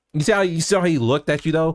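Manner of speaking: ordinary delivery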